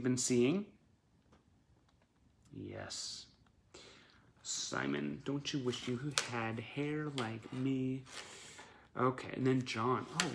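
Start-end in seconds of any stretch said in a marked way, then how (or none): 2.5-8.0 teasing bandmate voice. Pretend. Voicing the pictured bandmate teasing.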